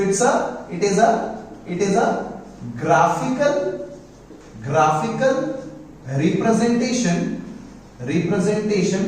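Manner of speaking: word-by-word dictation with pauses; measured classroom dictation; dictating. Real, not acted. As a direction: dictate slowly for note-takers, repeating each chunk. Teacher dictating a definition for notes.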